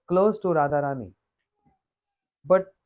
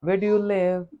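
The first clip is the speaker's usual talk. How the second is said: parrot voice. Retold or imitated. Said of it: "Speaking like this".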